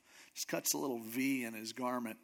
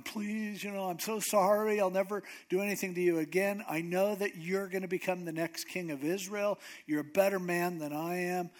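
higher-pitched, lightly acted begging; mock tearful pleading; 4 semitones higher than usual. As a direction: beg forgiveness as if crying. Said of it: "he's crying".

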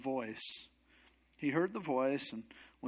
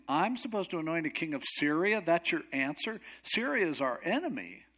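incredulous; 3 semitones higher than usual. Acted. Elijah balks at God's answer.

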